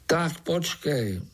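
slow, deliberate spider; slowly. A narrator's reading. Pája slowly stops the fly groom. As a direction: draw it out calmly. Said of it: "řekl pomalu".

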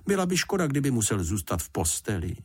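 mildly pitying mother, opening high; sympathetic regret. Acted. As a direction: start high with gentle regret. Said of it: "litovala Paddingtona paní Fousková". (mírně lítostivě)

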